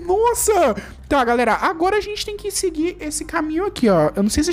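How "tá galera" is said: ordinary talk, nothing marked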